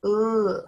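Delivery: "Ooh" as a long, loud L sound; isolated first sound. Shown as a demonstration. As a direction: hold a strong L on "Ooh". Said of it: "What is the first sound".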